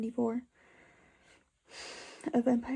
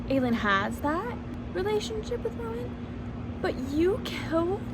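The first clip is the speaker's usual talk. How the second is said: outraged fan rant; 2 semitones higher than usual. Real, not acted. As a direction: rage at a character who wrecked everything. Fan ranting at a book character.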